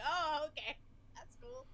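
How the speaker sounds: high mock oh okay. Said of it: "and I was like".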